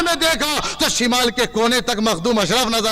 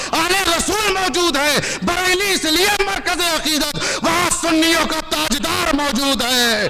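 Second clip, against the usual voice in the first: rousing sermon to a crowd; fiery preaching. Real, not acted. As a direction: preach it rhythmically, ringing out each city name. Preacher addressing a religious gathering.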